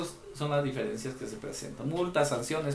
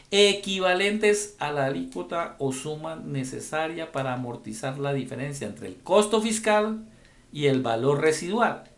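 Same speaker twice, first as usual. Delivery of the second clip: deliberate reading aloud of legal text; measured read-aloud, stretching key phrases; slow, verbatim reading. Real, not acted. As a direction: read it out slowly, word for word. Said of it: "Lo leo despacio, lo leo textualmente".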